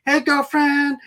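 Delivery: high-pitched mock call from a tree; Long Dyke Dong. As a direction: imitate a drunk character's gleeful greeting. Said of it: "when he jumps out, out, out of the tree, goes".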